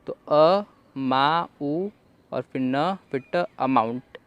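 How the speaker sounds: अ मा उ न ट sounded out, then अमाउंट; syllable by syllable. Shown as a demonstration. Teacher sounding out अमाउंट for students. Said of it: "तो ऐसे आप पढ़ सकते हैं".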